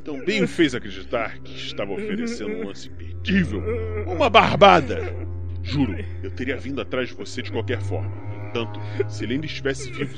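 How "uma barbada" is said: mocking laugh.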